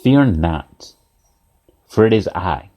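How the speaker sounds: low, slow, spaced-out reassurance; measured calling out. Acted. Jesus calls out to frightened disciples, measured low call. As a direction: call it low and deliberate, pausing midway. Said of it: "Jesus calls out to them".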